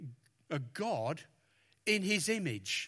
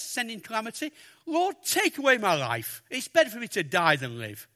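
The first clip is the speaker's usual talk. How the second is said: whiny Jonah; 4 semitones higher, faster than usual. Acted. Jonah complaining to the Lord.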